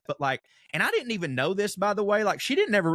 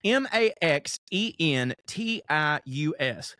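letters spelled slowly, one by one; spelling it out. Shown as a demonstration. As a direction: spell out M A X E N T I U S carefully. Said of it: "let me ask you".

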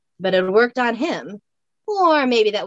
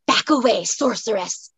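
a light Scots hiss; hissed warning. Acted. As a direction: warn off the sorceress in a Scots voice. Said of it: "he hissed".

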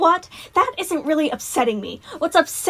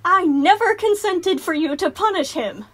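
higher, louder indignant mom; angry mother; 8 semitones higher, 4 dB louder than usual. A narrator's reading. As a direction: scold like an outraged parent.

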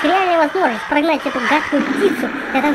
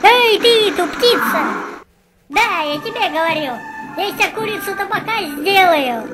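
shouting a challenge; 3 semitones higher than usual. Acted. Calling out to the bird.

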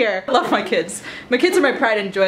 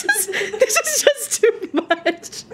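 laughing; 12 semitones higher, much slower than usual. Pretend. Mom overwhelmed, laughing.

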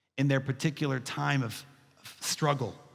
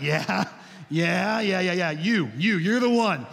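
mock eager kid, a bit louder; 3 semitones higher, 5 dB louder than usual. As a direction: gush like a child who just found his toy. Kid eagerly answering toy bunny.

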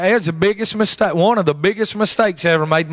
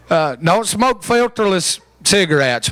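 mock rasp. Shown as a demonstration. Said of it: "they'll make you talk bad".

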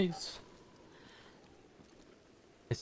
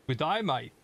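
mock Aussie greeting. Shown as a demonstration. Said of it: "It's just as simple to speak Aussie".

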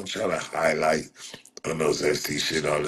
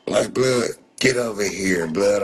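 calling out; 4 semitones higher, 5 dB louder than usual. Real, not acted. Calling out at chat.

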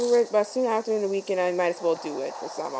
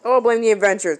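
"Oh, blame the adventures" said louder, more forceful; louder repeat; 7 dB louder than usual. Real, not acted. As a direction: push "Oh" out loud and falling. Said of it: "repeats louder".

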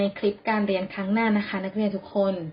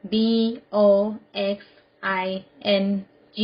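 spelled out. Shown as a demonstration. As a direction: spell it out with a pause after each letter. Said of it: "Spell it". (สะกดทีละตัวอักษรช้า ๆ)

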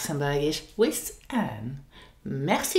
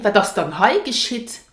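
gentler "Wat das dann hei geschieht?" with dann added; softer question; 3 semitones higher, 5 dB louder than usual. Shown as a demonstration. Teacher showing the softer version of the question. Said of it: "it sounds softer".

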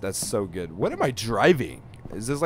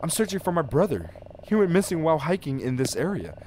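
higher-pitched, lightly acted plea; lightly voiced searching brother; 6 semitones higher than usual. Man telling a stranger his brother went missing, lightly acted. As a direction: pitch it up as the game's hero.

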